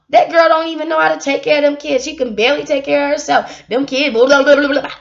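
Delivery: fast, sneering gossip imitation; mock the gossipers, rattling it off; quick imitation of catty neighbours. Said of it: "That's how they sound".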